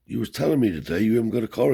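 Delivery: old man grilling a guest, voiced high and loud; grandfather's voice.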